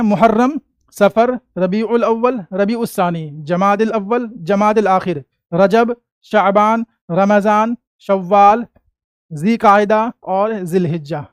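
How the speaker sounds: evenly paced roll-call of month names; final recap recitation. Shown as a demonstration. Teacher runs through the months one final time, measured recitation. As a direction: recite the list item by item. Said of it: "एक बार और आखिरी final".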